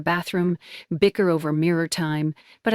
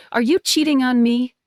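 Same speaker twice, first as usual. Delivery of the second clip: voice cracking; 6 semitones higher, 5 dB louder than usual. Acted. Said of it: "voice cracking".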